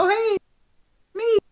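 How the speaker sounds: high, chirpy grand entrance; smug Doctor entrance. Retold or imitated. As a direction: pop in with a cheery hello. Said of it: "It's like".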